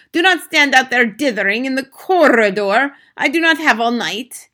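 loud, high impatient scolding; imperious witch out of patience; snapped. A narrator's reading. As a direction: hurry dawdlers along crossly. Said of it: "snapped the Grand High Witch".

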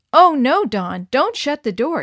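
high, loud alarmed cry; urgent exclaim. A narrator's reading. Missus Grant warning Dawn off the door, alarmed call. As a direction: stop her before she shuts it. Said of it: "exclaimed Missus Grant".

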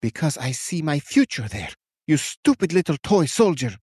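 rising to a high shout; witch's shout. A narrator's reading. Witch shouting at the captain, building loud. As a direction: spit out the insult at the end. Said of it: "Her shout carried".

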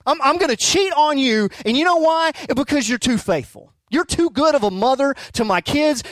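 high, mock-earnest absurd excuse; husband pretending to confess to his wife, high and absurd; absurd mock confession. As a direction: play the ridiculous husband straight-faced.

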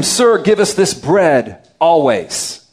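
slow, mocking request; mock-sincere plea for bread; sarcastic. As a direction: drag it out with sarcasm. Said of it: "there's a bit of sarcasm there".

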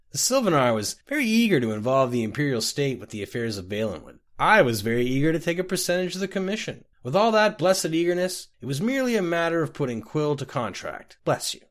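tipsy boastful rambling; a drunk man bragging over his mug; slurry, pleased-with-himself drunk; drunk Scotty. Acted.

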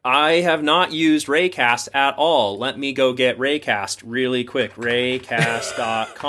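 feigned first-time discovery, slow and deliberate; mock charade. Host pretending to discover the app for the listener, mock innocent. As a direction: play dumb like you've never used it. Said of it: "we can stop the charade now".

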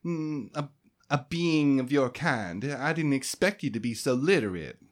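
high, sing-song receptionist voice; chirpy clerk. Acted. Debbie registering new arrivals, chirpy and high. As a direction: run through the forms like a cheerful desk clerk.

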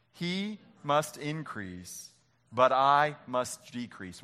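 slow group recitation, each word drawn out; slow reading together. Shown as a demonstration. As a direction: lead the room through it slowly. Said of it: "Will you read it with me?".

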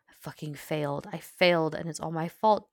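loud, building self-blame; anguished outburst. A narrator's reading. Bakugo confesses failure to Uraraka, anguished and loud.

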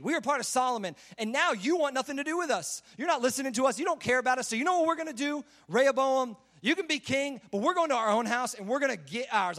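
mildly worked-up people's protest; aggrieved protest. Acted. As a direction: push back at the king, pitch climbing as grievances pile up. Acted protest of the rejected Israelites.

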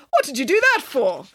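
high, aggrieved squeal; squealed protest. A narrator's reading. Mister Green slapped by nanny, squealed protest. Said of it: "squealed Mister Green".

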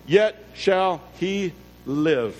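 slow, deliberate Bible reading; measured, solemn proclamation of scripture. A narrator's reading. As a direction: read the verse with weight, pausing between phrases. Reading the verse aloud solemnly.

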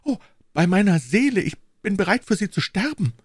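high, fervent vow; heartfelt. A narrator's reading. Young woman vows to die for her queen, heartfelt and fervent. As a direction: swear devotion from the bottom of your heart. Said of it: "Diese Rede kam aus dem Grunde des Herzens".

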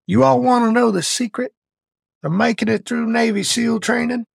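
imitating the SEAL instructor's voice; gruff old instructor. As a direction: bark it like a wounded old Vietnam vet instructor. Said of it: "And he talked like this".

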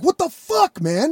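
high-pitched, bewildered protest; mock-shocked, voice jumping up; acted disbelief. Retold shocked reply to attacker.

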